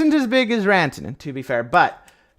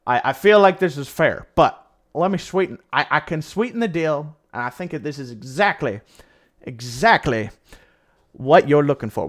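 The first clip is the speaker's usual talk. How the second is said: Texas oil baron. Retold or imitated. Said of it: "Calgary's like".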